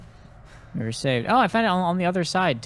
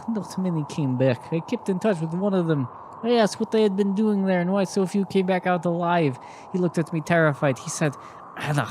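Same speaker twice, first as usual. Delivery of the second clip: put-on higher, halting accented reading voice; confessing old woman, put-on foreign accent; 5 semitones higher than usual. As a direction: read her testimony solemnly in a put-on accent. Continues reading as Anna.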